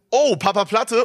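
imitated delighted recognition. Ride attendant recognises the guest mid-task, imitated surprised exclamation. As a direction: play the worker suddenly recognising a star. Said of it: "war mitten im Prozess so".

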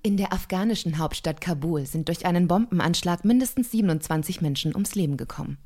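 newsreader delivery, measured; Tagesschau-style news read. Shown as a demonstration. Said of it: "Bitteschön".

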